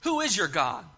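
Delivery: mildly scornful challenge; acting out a condescending rebuke. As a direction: talk down to an upstart, with understated affront. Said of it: "He's asking in a very condescending way".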